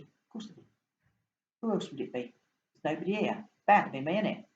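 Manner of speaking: lightly voiced London accent, matter-of-fact; a London fish stating the obvious; a hint of a cockney London fish. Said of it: "You can tell I'm from London".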